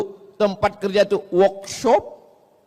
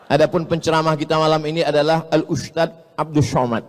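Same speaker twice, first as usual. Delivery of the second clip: parody MC; 6 semitones lower, faster than usual. Retold or imitated. Parodies MC announcing with shin.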